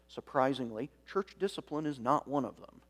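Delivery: dry, mock-surprised emphasis; sarcastic. Real, not acted. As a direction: say it with an ironic lift. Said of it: "I'm being a little sarcastic here".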